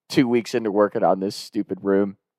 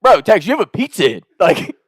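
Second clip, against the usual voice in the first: loud, higher, urgent disbelief; alarmed friend; 8 semitones higher, 5 dB louder than usual. Retold or imitated. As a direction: warn Tex the pizza's burning. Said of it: "He's like".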